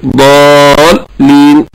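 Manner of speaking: ضالين with long "aa" into the doubled lam; continuous lam demo. Shown as a demonstration. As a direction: show the sound of ضالين at the lam. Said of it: "ولا ينقطع الصوت أيضًا على اللام".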